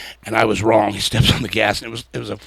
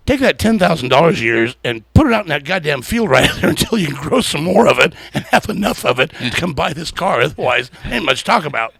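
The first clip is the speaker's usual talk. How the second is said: mildly hammed-up telling-off, a bit higher and louder; retold rebuff; 4 semitones higher, 6 dB louder than usual. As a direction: imitate an owner putting an upstart in his place. Retells owner's scolding rebuff.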